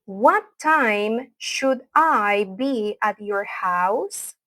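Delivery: very slow, word-by-word question; slow model pronunciation. Shown as a demonstration. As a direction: spell the question out slowly for repetition. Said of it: "voy a hablar lento".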